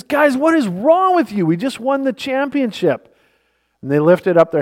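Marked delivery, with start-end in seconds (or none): 0.0-3.1 high, bewildered and still thrilled; baffled excitement. Retold or imitated. Magic to his downcast teammates on the bench, baffled excitement. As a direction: still buzzing, can't understand them.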